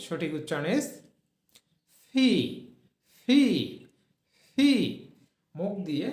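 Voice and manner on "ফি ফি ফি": ফি, said with a forceful burst of breath; aspirated pee. Shown as a demonstration. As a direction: blow ফি out hard. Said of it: "ফোর্সে জোরে একটা বাতাস বের হয়". (জোরে বাতাস ছেড়ে ফি)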